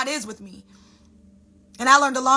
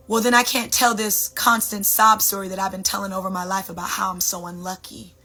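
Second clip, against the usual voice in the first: lower, matter-of-fact voice of God; God answering; 4 semitones lower than usual. Acted. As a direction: answer low and even, as God. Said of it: "God would be like".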